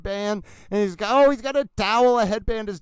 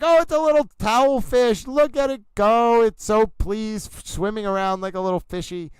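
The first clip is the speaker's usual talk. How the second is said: cooing over fish; 3 semitones higher, 3 dB louder than usual. Pretend. Streamer coos at an imagined towel fish, excitedly. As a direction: gush over it like a cute pet. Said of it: "you can be like".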